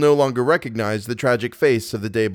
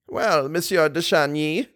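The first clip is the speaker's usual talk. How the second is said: put-on slow, higher old-lady exclamation; exclaimed; 4 semitones higher than usual. A narrator's reading. Mamma Valerius greets the young visitor, exclaiming slowly. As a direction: draw out the greeting as a mild exclamation. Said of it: "exclaimed Mamma Valerius".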